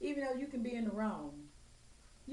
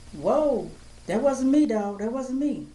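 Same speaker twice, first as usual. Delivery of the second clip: higher, swooping plea of innocence; mock defensive denial; 4 semitones higher, 17 dB louder, slower than usual. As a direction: imitate someone hastily dodging the blame. Imitates confronted people denying blame.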